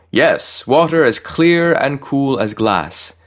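slow, loud, high and rapturous. A narrator's reading. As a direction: savour each word. Angel extols the well.

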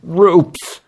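strained, in pain; through gritted teeth. Acted. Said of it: "He spoke around gritted teeth".

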